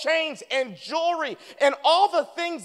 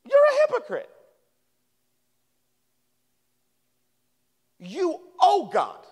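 much higher, mock-outraged accuser voice; 6 semitones higher than usual. Pastor imitating his father calling him a hypocrite, hammed-up and high. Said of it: "He said".

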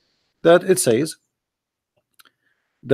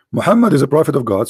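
hoarse, half-whispered, voice giving out; tired throat, words barely voiced; losing voice; 3 dB louder, faster than usual. Real, not acted. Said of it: "I'm losing my voice".

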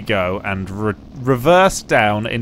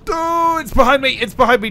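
panicked high cry; alarmed, enemy right behind; being chased; 12 semitones higher, 3 dB louder, faster than usual. Real, not acted.

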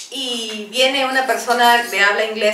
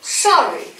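slow model phrase; slower than usual. Shown as a demonstration. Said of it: "Another expression".

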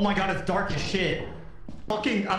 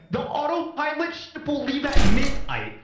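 raised, high-pitched alarm call; urgent warning; 5 semitones higher than usual. Real, not acted. Urgently warns crew of departing ship.

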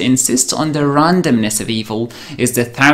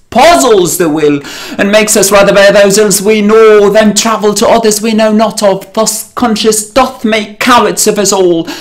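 impassioned stage Shakespeare, swelling louder and higher, dropping at pauses; dramatic soliloquy recitation; 5 semitones higher, 5 dB louder than usual. Acted. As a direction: declaim it like Hamlet alone onstage.

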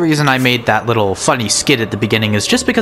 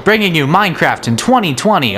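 loud carnival barker; 4 semitones higher than usual. Acted. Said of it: "Oh, what am I doing?".

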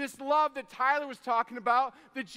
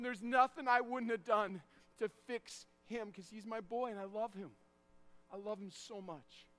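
tender love; 2 semitones lower, 6 dB quieter than usual. Retold or imitated. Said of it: "I just remember going".

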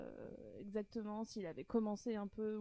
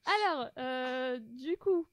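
quiz-host voice. Pretend. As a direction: pose it like a game host. Hosts quiz, reading first statement.

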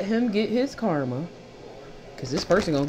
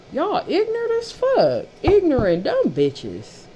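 high insult yell; 10 semitones higher than usual. Real, not acted. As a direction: screech the insult at them. Insulting the rivals.

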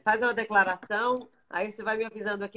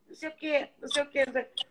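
voicing her son; 7 semitones higher, faster than usual. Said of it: "Aí ele falava".

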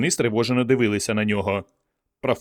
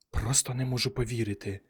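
much softer breathy whisper; 9 dB quieter than usual. A narrator's reading. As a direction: whisper it in disbelief. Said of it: "прошепотів він".

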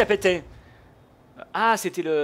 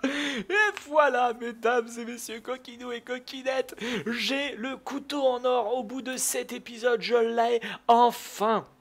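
slow, higher, drawn-out proud announcement; savoured triumph; 4 semitones higher, slower than usual. Real, not acted. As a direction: savour every word of the win. Announcing the long-awaited win. (annonce lente et savourée)

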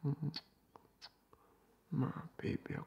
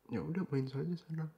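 mock sulky reply; 5 dB louder than usual. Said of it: "kamu ngomongnya tuh kayak".

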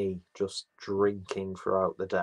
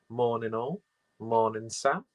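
put-on Australian accent; 2 semitones higher than usual. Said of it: "Don't do an Australian accent".

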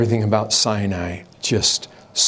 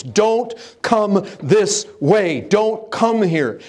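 mock warning; 10 semitones higher, much slower than usual. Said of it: "just screams".

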